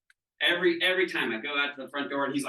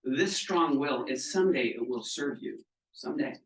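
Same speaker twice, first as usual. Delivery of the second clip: kindly. Retold or imitated. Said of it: "very kindly said to her this".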